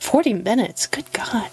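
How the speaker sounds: breathy shocked whisper. Acted. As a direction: gasp it under your breath.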